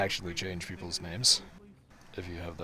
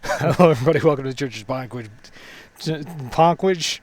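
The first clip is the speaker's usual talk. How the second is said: podcast host voice; 6 semitones higher, 12 dB louder than usual. Acted.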